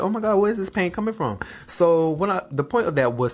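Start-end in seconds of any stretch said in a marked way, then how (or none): 0.0-1.4 high, fast alarmed quote; alarmed at the pain. Retold or imitated. Remembering the shower pain, higher and quick with alarm. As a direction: panic about sudden pain. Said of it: "I was like".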